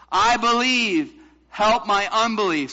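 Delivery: loud, high, measured recitation; crying out. Shown as a demonstration. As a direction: lead the room in a loud cry. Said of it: "Can you say that with me?".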